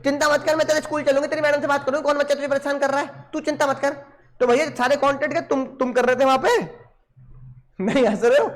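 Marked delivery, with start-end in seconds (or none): 0.0-3.9 mother comforting her son, lightly voiced; reassuring mother. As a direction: soothe the child, promise to see the teacher.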